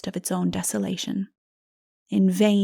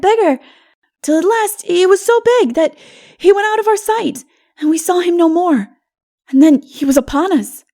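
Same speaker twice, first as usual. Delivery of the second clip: put-on high, loud, breathless child telling a scary tale; a little boy reliving the shadow; Odu the child, frightened; 6 semitones higher, 9 dB louder than usual. Odu tells the narrator of the shadow, high and frightened.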